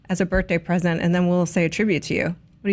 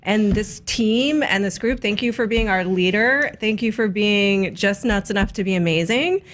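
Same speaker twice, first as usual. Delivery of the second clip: sincere. Real, not acted. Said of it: "I'm gonna say something sincere".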